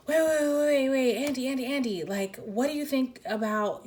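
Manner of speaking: urgent pleading. Retold or imitated. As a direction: chase her down the stairs, begging her to wait. Chasing her to win her back.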